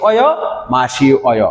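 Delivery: অয় kept apart after a long "ma-shi"; separated pronunciation. Shown as a demonstration. Teacher showing how the verb ending joins, separated pronunciation. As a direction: sound out অয় as its own piece, "o-yo". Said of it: "উচ্চারণ দেখেন".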